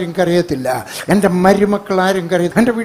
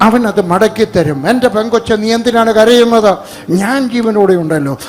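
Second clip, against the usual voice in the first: raised, urgent sermon voice; forceful preaching; 4 dB louder than usual. Acted. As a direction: press the comfort on them with a strong voice. Preaches comfort at full voice.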